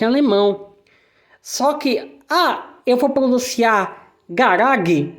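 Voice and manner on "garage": "Garage" said the German way, questioningly; German-style Garage. Shown as a demonstration. Teacher asking if the loanword changes. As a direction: try "Garage" with a hard German g. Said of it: "Não".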